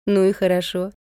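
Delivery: mildly glad; a touch of relieved pleasure; pleased. A narrator's reading. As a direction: say it with understated gladness. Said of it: "обрадовалась я".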